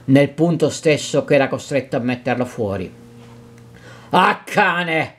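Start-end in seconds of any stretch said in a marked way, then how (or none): 4.1-5.1 angry cry. Acted. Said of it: "urlò Renzo".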